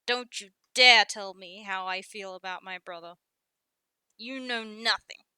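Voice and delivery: indignant, with loud bursts; bristling. Acted. Guppy tells Specs to leave the brothers alone, bristling. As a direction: bristle and warn them off, hitting key words hard.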